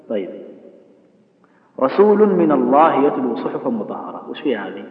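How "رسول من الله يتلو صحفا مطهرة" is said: slow model reading. Shown as a demonstration. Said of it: "التنوين هذا وش حكمه".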